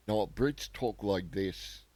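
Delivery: slow, badly faked British accent; terrible British accent. Shown as a demonstration. Streamer mocking how Brits talk, in a terrible British accent. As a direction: put on a poor British accent, drawn out. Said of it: "That was a terrible British accent".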